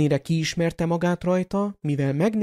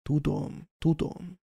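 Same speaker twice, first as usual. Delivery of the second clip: soft, sighed tudom; sighing; 6 dB quieter, slower than usual. Acted. Dumbledore comforting McGonagall, soft sighing. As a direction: breathe it out on a sigh, softer. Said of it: "sóhajtott".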